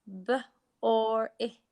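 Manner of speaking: "B" and "or I" given as separate sound chunks with a pause. Shown as a demonstration. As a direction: split the sounds, pausing between "B" and "or I". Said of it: "And the last one".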